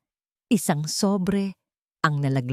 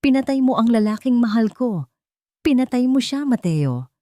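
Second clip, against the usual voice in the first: higher, louder furious shout; 7 semitones higher, 5 dB louder than usual. A narrator's reading. Isabela accusing her brother of murder, shouting furiously. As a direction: scream the accusation at him. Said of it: "Sigaw ni Isabela".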